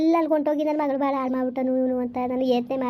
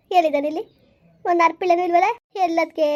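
raised, higher searching shout; calling out; 4 semitones higher, 4 dB louder than usual. Acted. Searching the farm for the missing son, calling out loud. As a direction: call out across the field.

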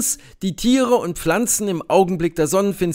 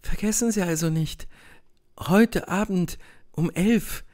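intimate hush; 7 dB quieter than usual. A narrator's reading. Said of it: "fasst mich Masenka bei der Hand und sagt".

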